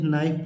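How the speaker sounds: नाइफ said with no K sound; silent K. Shown as a demonstration. Teacher shows children the silent letter, नाइफ without its K. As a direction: start नाइफ straight on the N. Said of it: "इसमें बच्चों के silent है".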